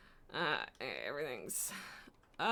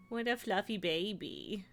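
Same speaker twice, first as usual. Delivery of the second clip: cooing; 7 dB quieter, slower than usual. Real, not acted. Streamer to her fluffy cat, cooing.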